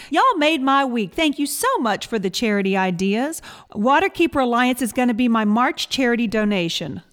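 put-on listener's message in a mild Southern accent. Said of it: "I had to do a Southern accent".

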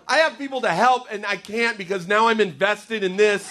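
a god too invested to leave it; harried God. Acted. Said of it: "I picture God up in heaven".

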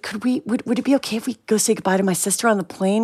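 lightly voiced sweet innocent girl asking; a hint of a wide-eyed child pleading; innocent little girl. Girls sweet-talking the gate agent to board, lightly innocent.

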